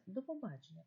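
«до побачення» run together without a break; joined as one word. Shown as a demonstration. Teacher repeating до побачення as one word. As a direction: blend «до побачення» into a single word. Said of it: "ніби разом, ніби одне слово".

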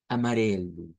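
"Amarelo" with a soft tapped r and final u. Shown as a demonstration. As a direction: show the soft r. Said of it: "es una R suave". ("Amarelo" con R suave)

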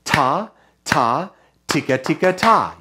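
measured syllables on a steady beat; rhythmic call for repeating; rhythm demo. Shown as a demonstration. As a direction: say "ta" and "tika" as a call to echo. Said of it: "repeat after me".

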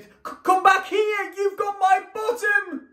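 high, loud call out to sea; shouting. Acted. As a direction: yell after the rabbits. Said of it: "he shouted".

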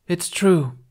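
said strongly. A narrator's reading. Captain insisting to her crew, strong and loud. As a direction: put her foot down on it. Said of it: "she said strongly".

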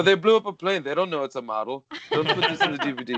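put-on nondescript European accent, jumping high at the end; Renny Harlin. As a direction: act an excitable director with a vague European accent. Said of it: "it's what I'm doing when I do Renny Harlin".

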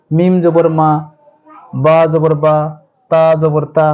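short clipped vowels, read quickly. Shown as a demonstration. Teacher showing students the short vowel, read quickly. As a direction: snap each syllable short. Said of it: "এভাবে এটা দ্রুত পড়বো".

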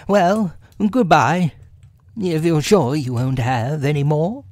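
lifted, emphatic storybook animal voice; Rabbit. A narrator's reading. Rabbit seeing Pooh off, high and firm.

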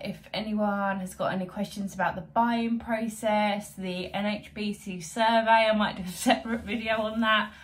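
slight lisp from whitening strips; talking with strips on her teeth. Real, not acted. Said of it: "sorry for the lisp, I've got teeth whitening strips in".

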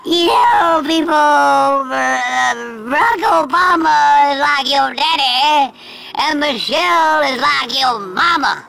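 slow, drawn-out mock quotation; mocking quote. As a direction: drag out the quoted words mockingly. Mockingly quotes Chris Rock's statement.

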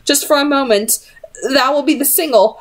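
a hint of trembling in a high voice; slight tremble. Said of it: "slight tremble to her voice".

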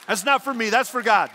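loud, high preacher's cry; fervent shout. Real, not acted. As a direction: shout it out to the whole congregation.

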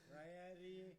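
loud contemptuous insult; angry. Real, not acted. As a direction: spit it at him. Insulting opponent loudly.

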